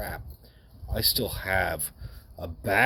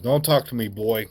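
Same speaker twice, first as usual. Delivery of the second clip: put-on louder, stern command from an old man; stern gruff man; 3 semitones higher, 6 dB louder than usual. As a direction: cut the boy off firmly and loudly. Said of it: "He said".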